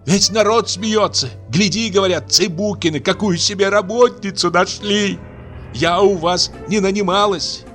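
high, tearful angry tirade; furious crying rant. Acted. Aksinya shouting at the old man through tears, furious. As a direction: scream her grievance at the family. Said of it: "кричала она изо всей силы".

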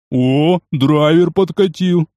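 pleased smirk. Acted. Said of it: "довольно хмыкнул жирный".

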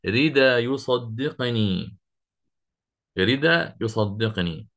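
ردا يصدقني read slowly, ردا with no hamza, the final tanween turned into a long a; slow reading demo. Shown as a demonstration. Teacher slowly shows students the Abu Jafar reading. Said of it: "تصبح هكذا".

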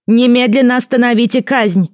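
high, loud, each word hammered out; clipped command. A narrator's reading. Boy king ordering the execution stopped, loud and high. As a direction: rap out the order like a little king. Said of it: "отчеканил Илверт".

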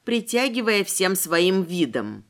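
plain reading voice

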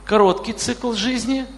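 ordinary talk, nothing marked

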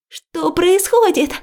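high, loud, drawn-out cry; startled as the water bursts in; frightened cry. A narrator's reading. Liya crying out as water floods the ward, frightened. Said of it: "испуганно вскрикиваю".

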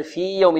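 في يوم with the ī kept long and apart from y; separated ya. Shown as a demonstration. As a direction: draw out في before يوم. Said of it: "أبن يعني أظهر". (في يوم بلا إدغام)

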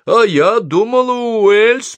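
high, loud indignant yell; bawling. A narrator's reading. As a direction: bawl it out, pitch way up. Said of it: "проорала Софи". (орать высоким голосом)

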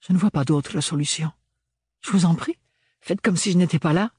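a touch of huffy sarcasm; annoyed. A narrator's reading. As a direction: protest with rising exasperation. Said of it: "s'agaça Ophélie".

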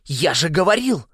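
high, loud I-told-you-so; excited exclamation. A narrator's reading. Нэш turns to the others, exclaiming. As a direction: cry out in triumph, pitched high. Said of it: "воскликнул он".

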